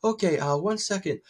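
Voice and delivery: put-on high old man, stalling politely. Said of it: "I usually do an old man voice".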